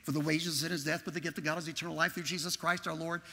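hurried run through memorized verses; reciting really fast. Retold or imitated. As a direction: rattle the verses off without a break. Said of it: "I was really going fast".

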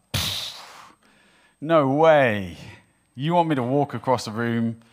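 mock-incredulous refusal, pushed up and out; scoffing disbelief. Doubtful Bible reader balking at miracles, scoffing disbelief.

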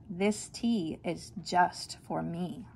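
slow, satisfied and a bit smug. Acted. Mother keeping the tea for herself, slow and smug. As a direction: savor having the tea to yourself.

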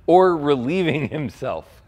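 amused taunt with a laugh; mocking. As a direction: let a laugh slip into the jeer. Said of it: "Elijah began mocking them".

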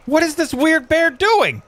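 high, drawn-out incredulous question; exasperated bafflement. Real, not acted. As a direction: wail it slowly in sheer disbelief. Baffled by odd bear.

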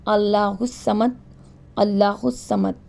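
اللہ الصمد drawn out slowly and calmly; slow model recitation of اللہ الصمد. Shown as a demonstration. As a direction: say it unhurried, syllable by syllable. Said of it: "بالکل آرام سے پڑھنا ہے".

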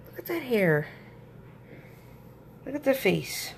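soft, hushed cooing; hushed admiring. Real, not acted. Admiring sleeping newborn softly.

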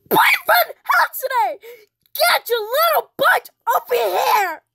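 high, loud summons; angry calling out. Acted. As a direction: yell for a naughty child to come over. Acted adult angrily calling a child over.

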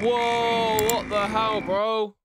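sudden loud high yelp of shock; startled outburst. Real, not acted. Gamer startled by a creepy figure, loud shocked yelp. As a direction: jolt back in real surprise.

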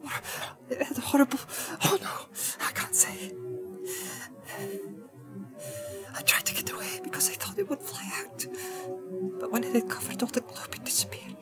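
halting whisper, growing a little stronger; low, hesitating voice. A narrator's reading. Hobbit telling the wizard his vision, hushed and hesitant. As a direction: recount the vision in a frightened, breathy hush. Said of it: "In a low, hesitating voice, Pippin began again".

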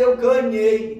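loud, high shout of victory; triumphant cry. Retold or imitated. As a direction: burst out with joy. Winning the beauty contest.

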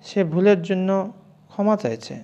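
normal talking voice

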